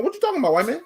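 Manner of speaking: high, incredulous sitcom catchphrase, again with a smirk; Arnold Jackson catchphrase. Retold or imitated. Repeating the sitcom line at the company man. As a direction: land the catchphrase with full disbelief. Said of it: "I went straight Arnold Jackson".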